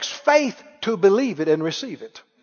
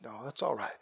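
quiet reassurance; 9 semitones lower, 19 dB quieter than usual. Retold or imitated. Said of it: "I said".

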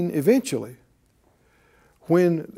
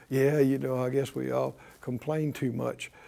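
softer, lower offhand shrug; shrugging dismissal; 6 semitones lower, 9 dB quieter than usual. Retold or imitated. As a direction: brush it off like it's nothing. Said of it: "people kinda laugh and go".

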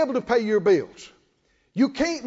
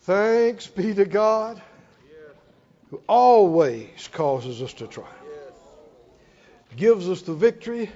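worship prayer; 3 semitones lower than usual. Acted. Preacher leading the church in closing worship.

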